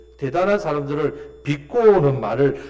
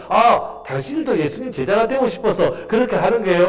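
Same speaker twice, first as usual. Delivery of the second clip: raised-pitch mocking question; sarcastic retort; 5 semitones higher, 4 dB louder than usual. Healed blind man taunting the leaders about discipleship, sarcastic. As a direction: feign sudden realization, taunting them. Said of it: "이렇게 비꼬았단 말이에요".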